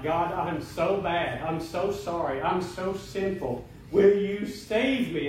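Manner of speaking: slow, drawn-out pleading prayer; retold desperate prayer. Preacher re-enacting his plea to God at night, slow pleading. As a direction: stretch each confession out slowly, earnestly.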